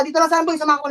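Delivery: sharp order shouted across the voice chat; urgent shout. Real, not acted. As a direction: shout the call over the fight. Shotcaller yelling orders mid-fight.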